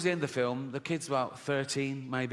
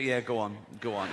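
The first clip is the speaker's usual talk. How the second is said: mock encouraging; 6 semitones lower than usual. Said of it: "you go".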